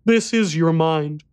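put-on slow, soft small boy's voice; a frightened boy speaking softly; quiet little boy voice. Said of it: "said the boy quietly".

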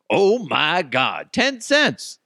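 slow, stretched, high "oh my God, ten cents"; incredulous mockery of a petty customer; mock disbelief. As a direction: drag it out, sarcastic at the tiny amount. Mocking outrage over ten cents.

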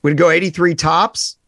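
sudden loud call-out; loud then suddenly hushed. Real, not acted. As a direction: blurt it out loud. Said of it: "I don't know why I yelled that".

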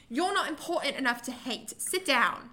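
lightly put-on British reality-star voice; shaky British accent. Host quotes Lisa Vanderpump for guessing, amateur British accent. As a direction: attempt a British accent, not quite convincingly. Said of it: "I'm gonna do the accent".

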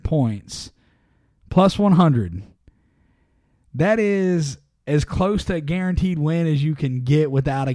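upbeat sponsor read, punchy. Acted. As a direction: sell it like a radio ad. Host reads sponsor ad.

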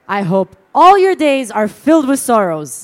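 said loud with full confidence, every word pressed; loud confident blunder. Retold or imitated. Mourner offering condolences to grieving friend, loudly confident. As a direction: deliver the wrong condolence boldly, certain and sure. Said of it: "and I said".

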